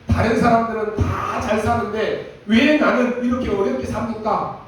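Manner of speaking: mock grumbling to God; whining prayer. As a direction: imitate a self-pitying prayer. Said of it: "그렇게 기도했다니까요".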